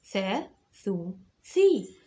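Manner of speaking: drilling the three short vowels. Shown as a demonstration. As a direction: run "ثا، ثو، ثي" as tha, thu, thi. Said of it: "يا حرف الثاء".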